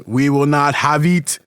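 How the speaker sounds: lightly voiced imitation of an African film accent; a hint of a stern African king's accent; mock African accent. Mom quoting the movie's rival king in mock African accent. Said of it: "doing this accent the whole time".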